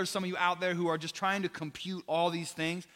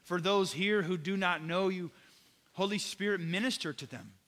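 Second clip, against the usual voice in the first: heartfelt prayer. Acted. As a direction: pray over the congregation, pleading and sincere. Closing prayer over music.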